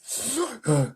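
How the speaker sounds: high effortful gasp. A narrator's reading. James wiping off sweat, puffing gasp. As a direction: catch breath after hard effort. Narrator acts James's exertion.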